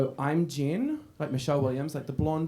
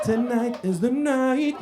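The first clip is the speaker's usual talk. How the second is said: slow, higher, hammed-up mystic line; slow mock-mystical line; mock ominous pronouncement; 7 semitones higher, 3 dB louder, much slower than usual. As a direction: drag it out like a fake oracle. Mock spooky pronouncement to Hannah.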